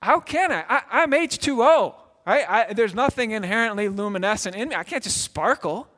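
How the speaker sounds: the ripple answering the command, pleading; plaintive ripple voice. Pretend. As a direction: protest helplessly, like water that cannot shine. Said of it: "might hear that command and say".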